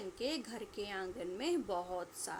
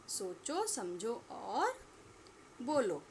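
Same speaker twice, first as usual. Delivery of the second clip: slow teaching demo; much slower than usual. Shown as a demonstration. Teacher repeats the task.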